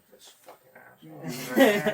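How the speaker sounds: high, drawn-out mocking quote; retold disgusted reaction. Voicing others' reaction to jokes.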